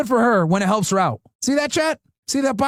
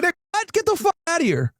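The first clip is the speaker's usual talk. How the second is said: higher-pitched scoffing disbelief; mock dismissal; 6 semitones higher than usual. Women rejecting a would-be chef, mock dismissal. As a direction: imitate women laughing off a male chef. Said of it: "They're like".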